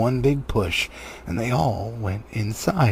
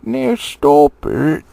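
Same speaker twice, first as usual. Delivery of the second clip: much louder, slow command; slow loud order; 4 semitones higher, 9 dB louder, much slower than usual. Acted. Tom and Bert ordering the quarrel to stop. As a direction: stop the fight, drawn out. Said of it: "said Tom and Bert together".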